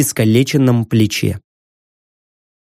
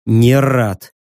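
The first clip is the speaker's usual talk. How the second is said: gloomy; 5 semitones lower than usual. Acted. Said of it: "подтвердил я мрачно".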